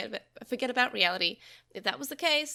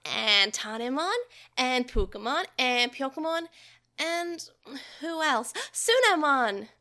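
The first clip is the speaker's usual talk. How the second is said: excited; 3 semitones higher, 4 dB louder than usual. A narrator's reading. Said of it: "Takeru said excitedly".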